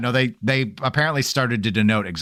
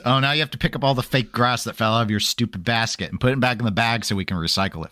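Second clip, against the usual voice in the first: quick run-on retold chore order; nagging parent, retold; faster than usual. Retelling a parent's orders about Easter grass, quick nagging.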